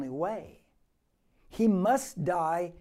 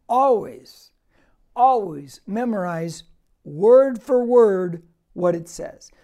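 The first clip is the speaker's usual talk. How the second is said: louder and slow, pressing every word; emphatic preaching; 10 dB louder, slower than usual. Real, not acted. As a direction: drive the command home from the pulpit. Preacher repeats the instruction louder.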